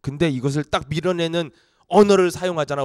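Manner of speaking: usual speaking voice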